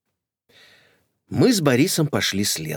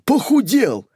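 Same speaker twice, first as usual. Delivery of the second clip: high, louder gushing; gushing old lady; 9 semitones higher, 4 dB louder than usual. Acted. Old lady flatters the nephew, high and gushing. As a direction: flatter him loudly.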